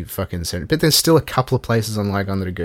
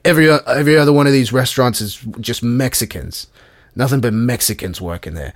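racist tout; 4 semitones higher, 5 dB louder than usual. Retold or imitated. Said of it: "And he's like".

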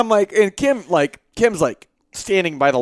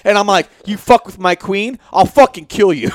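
Dog the Bounty Hunter voice; 3 semitones higher, 3 dB louder than usual. Retold or imitated. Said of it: "trying to sound like Dog the Bounty Hunter".

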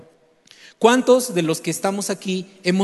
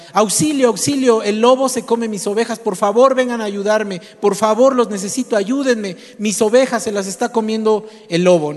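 pleading cry for help; 4 semitones higher than usual. Acted. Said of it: "los otros pastores vuelven a escuchar".

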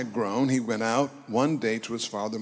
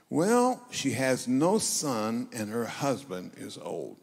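pointed reply; slower than usual. Acted. Servant tells the prophet what she lacks, pointed and slow. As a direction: answer slowly, leading with a big "well". Acting out Gehazi's answer to Elisha.

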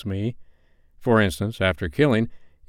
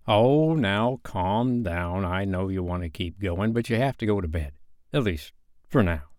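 soothing. Pretend. Storyteller sending listeners to bed, gently soothing. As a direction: settle them down tenderly.

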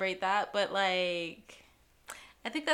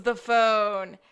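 louder, slow, laughing through it; 4 semitones higher, 7 dB louder, slower than usual. Real, not acted. Laughing while retelling Sean's terrible throw, loud. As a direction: let the laugh break into the words.

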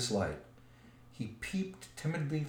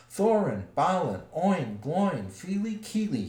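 high, loud calling of the names; a lost hobbit yelling for his friends, loud and high; crying out loud; 5 semitones higher, 5 dB louder than usual. Acted. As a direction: shout the names into the dark as loud as you can. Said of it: "he cried as loud as he could".

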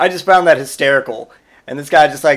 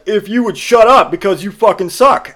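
put-on bratty kid insult; 6 semitones higher, 3 dB louder than usual. Son insulting dad.

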